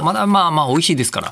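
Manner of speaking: talking while crunching snacks; crunching chips. Real, not acted. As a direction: mouth full of crunchy snack. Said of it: "まだポリポリ食べてますね". (お菓子をポリポリ食べながら)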